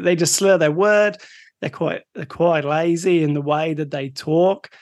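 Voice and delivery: lazy, slurred Australian accent. Shown as a demonstration. Explaining the slurring theory, in a mock Australian accent. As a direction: put on a lazy Aussie accent. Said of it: "your Australian accent's really good".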